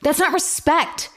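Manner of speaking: slow and high, outraged; heated. Real, not acted. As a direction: spell it out slowly, outraged. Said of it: "getting heated".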